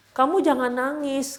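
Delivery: gently urge, drawing the words out; retold consoling. The Prophet to his crying wife, consoling. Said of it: "membesarkan hati Sofia".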